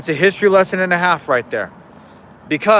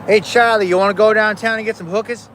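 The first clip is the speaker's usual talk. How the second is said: put-on Boston accent; 4 semitones higher than usual. Boston accent tossed to a buddy named Charlie. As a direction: toss off a Boston line to a buddy. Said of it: "I just wanted to say it like that".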